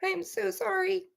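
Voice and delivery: strained voice after choking; breathless after a coughing fit; coughing up water. Real, not acted. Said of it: "Water went down the wrong pipe".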